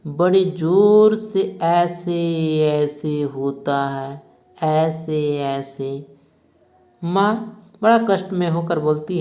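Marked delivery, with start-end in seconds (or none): 0.1-6.2 put-on a child on the verge of crying; near tears. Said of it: "रुआसा सा होकर बोलता है".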